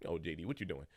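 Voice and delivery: fast, laughing mock taunt; dad teasing his crying son; imitating dad mocking. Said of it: "That's what he would say".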